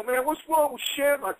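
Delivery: mocking Knobbs. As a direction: sneer at Shamrock behind his back. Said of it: "I hear this guy go".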